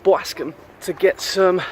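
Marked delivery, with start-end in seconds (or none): 0.0-0.5 Boscombe in a New York accent, "Bwaskum". Shown as a demonstration. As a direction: say Boscombe like a New Yorker, lower. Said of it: "I always say it in a New York accent".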